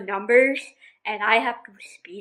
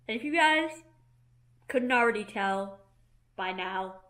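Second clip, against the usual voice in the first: whisper; 5 dB quieter than usual. Real, not acted. Whispered aside to viewers.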